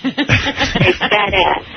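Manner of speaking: said through a real laugh; amused, laughing the line out. Real, not acted. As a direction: laugh out the words slowly. Laughs while answering the hosts.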